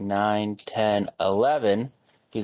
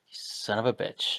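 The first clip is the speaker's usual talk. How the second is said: whispered curse; 7 dB quieter than usual. Real, not acted. Opponent grudgingly mutters curse.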